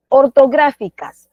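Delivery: "Ortográficas" slow and loud, stressed on "grá"; stress on GRA. Shown as a demonstration. Teacher asking where the word carries its stress, "grá" emphasized. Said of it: "Porque está gra".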